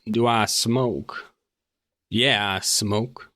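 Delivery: very slow, drawn-out officer's reply; unhurried guard with a hint of character; lightly voiced officer. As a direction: stretch the words out lazily, in character.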